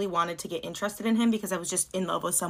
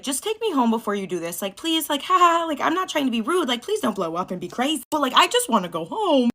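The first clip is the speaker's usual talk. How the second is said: retold nervous pleading; 5 semitones higher, 3 dB louder than usual. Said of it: "Basically pleading with this man".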